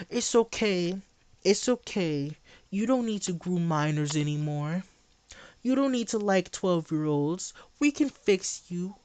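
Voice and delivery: lightly mocking baby-soothing tone. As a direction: pretend to calm a crying infant. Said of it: "hold you like a baby".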